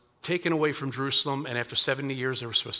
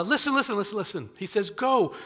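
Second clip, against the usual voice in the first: urgent call to the crowd; 6 semitones higher, 4 dB louder than usual. Retold or imitated. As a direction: call the weeping crowd to stop and listen. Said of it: "And Nehemiah says".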